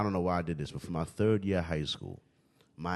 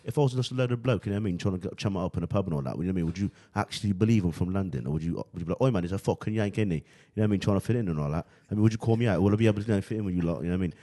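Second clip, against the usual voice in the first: put-on London accent, louder; British accent; 3 dB louder, faster than usual. Asking Londoners if he passes, in a London accent. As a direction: chum it up like a London bloke. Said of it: "I've actually met people from London".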